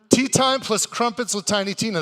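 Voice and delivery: announcing. Acted. Host repeats the card out loud.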